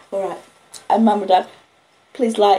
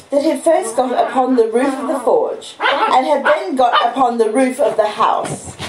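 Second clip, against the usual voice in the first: steady storytelling read, chapter by chapter; story narration; 3 semitones higher, 5 dB louder than usual. Acted. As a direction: read the novel aloud to listeners. Reads Great Expectations on stream.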